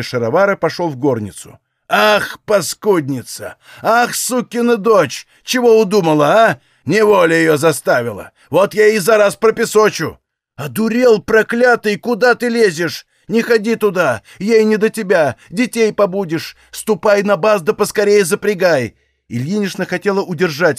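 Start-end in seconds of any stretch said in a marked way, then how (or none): 1.9-10.2 higher, louder enraged outburst; cursing father boiling over; furious old man. Acted. 10.6-19.0 higher, loud pleading shout; wife yelling at her husband to leave the sick woman alone; desperate shouting. Acted. Wife holds back raging husband.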